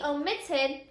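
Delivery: "omitted" accented on the syllable MIT; stress on MIT. Shown as a demonstration. Teacher adds the suffix for students, "omitted" stressed on MIT. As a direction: make MIT the strongest part of "omitted". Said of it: "is also the strongest syllable".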